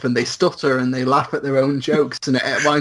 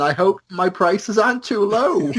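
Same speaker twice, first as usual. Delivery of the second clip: Ants in My Eyes Johnson; 6 semitones higher than usual. Acted. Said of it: "Yeah, he's like".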